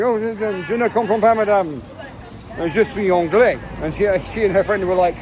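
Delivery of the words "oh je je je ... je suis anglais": feigned ignorance. Retold or imitated. Pretending not to understand the old lady at the market, mock confusion. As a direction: play dumb with an overdone "je ne comprends pas". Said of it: "I was feigning ignorance".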